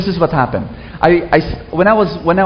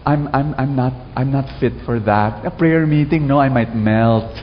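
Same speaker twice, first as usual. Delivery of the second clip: timid self-doubter voice; 3 semitones lower than usual. Retold or imitated. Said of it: "listen to their language".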